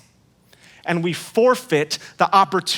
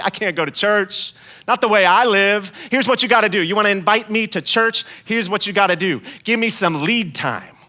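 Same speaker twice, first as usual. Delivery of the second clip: hammed-up reluctant friend. Churchless friend declining invite.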